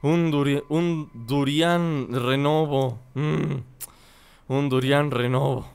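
low, slow, fading last request; weak dying wish. Acted. Dazed girl begging a last fruit, slow and fading. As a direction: drag it out as if barely conscious.

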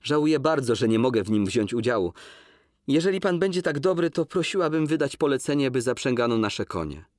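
heightened woman's voice, insistent; Łucja's voice. Acted. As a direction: refuse him, firm and pained. Łucja excuses herself.

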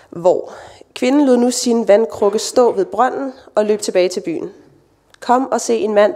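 steady, measured Bible reading with quoted voices lightly marked; scripture reading. Acted. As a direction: read the story aloud to the congregation. Reading the Bible passage aloud. (oplæsning af bibeltekst for menigheden)

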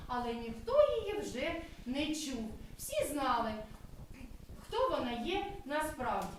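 lively, sing-song storytelling voice; story narration for children. Acted. Kindergarten teacher reading a cloud story aloud to children. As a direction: tell the tale as if to small kids.

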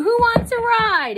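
high, loud little-truck offer; eager invitation. A narrator's reading. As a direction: call out to all the friends. Little truck invites friends aboard.

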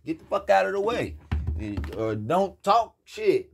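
mock-furious rant, stretched out at the end; angry yelling. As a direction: chew them out for just standing there. Acted quarrel over the stuck couch.

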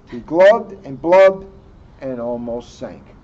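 bubbly sinking voice; glubbing underwater. Acted. Narrator showing Froggy sinking, bubbly and gurgling.

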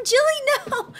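high urgent cry of the name; a real no; pleading call. Real, not acted. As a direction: call her back before she walks off. Calling out to her Sim.

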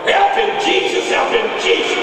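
high-pitched mock congregant yell; imitated pleading yell. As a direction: cry out from the back pew in mock desperation. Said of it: "some lady in the back yelled".

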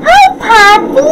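put-on squeaky high baby-talk hello; high cutesy greeting. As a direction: coo it high at the dog. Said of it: "I was like".

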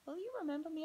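questioning. Acted. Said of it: "asked Emma".

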